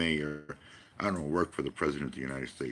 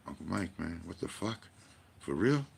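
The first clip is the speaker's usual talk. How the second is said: incredulous friends. Retold or imitated. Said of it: "they go".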